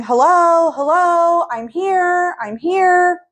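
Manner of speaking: very high, loud "Hello, hello, I'm here, I'm here"; loud sing-song calling. Retold or imitated. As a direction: call out "I'm here" to make sure he hears you. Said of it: "lack of me going".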